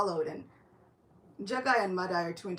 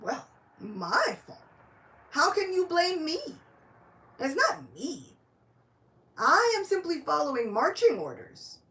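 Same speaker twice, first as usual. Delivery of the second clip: louder and higher, defending himself; indignant protest; 5 semitones higher, 6 dB louder than usual. Acted. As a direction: push the blame back, worked up. Nitai protests the blame.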